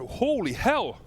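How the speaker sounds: shocked exclamation. Real, not acted. Burning pepper reaction.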